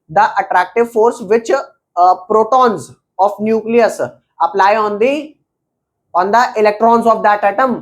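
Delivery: every word spelled out slowly for students to copy; slow dictation. Acted. Teacher dictating the definition to students, very slow. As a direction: dictate it word by word so they can write.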